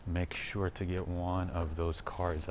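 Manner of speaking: out of breath while walking; breathless, gasping between phrases; running out of air. Real, not acted. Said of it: "I'm running out of breath".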